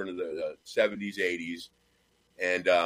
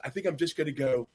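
soft, slowing, lightly played sitcom seductress; aggravated underneath, keep the smile and savor each phrase; hushed, leisurely put-on sweetness; Blanche; 5 dB quieter than usual. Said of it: "but keeps smiling".

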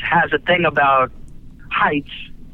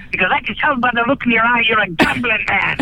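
put-on Scottish accent; 6 semitones higher than usual. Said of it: "And he said".

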